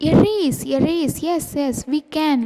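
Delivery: a touch of an eager cheer; excited birds. Acted. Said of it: "every bird cried".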